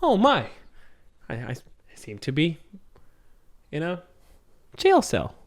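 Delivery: high, halting robot voice; squeaky lost robot. Acted. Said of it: "Was that good for you, the robot voice?".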